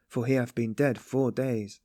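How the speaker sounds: four leaned on firmly; weight the word four; emphasis on four; stress on four. A narrator's reading. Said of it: "She laid emphasis on the word four".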